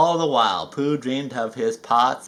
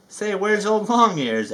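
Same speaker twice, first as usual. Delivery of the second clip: Tigger voice; 6 semitones higher, 3 dB louder than usual. Acted. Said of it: "asked Tigger".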